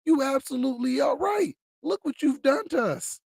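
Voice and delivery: heated, rising indignation; angry rant. Real, not acted. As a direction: rail at him, building anger. Rant against elites.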